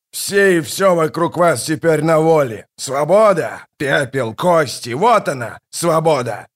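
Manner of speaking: raging shout. Acted. Kallor raging over ashes.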